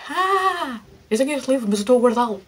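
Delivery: high, loud thought, suddenly remembering; sudden delighted gasp, high and loud; surprised realisation. Retold or imitated. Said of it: "e eu fiquei".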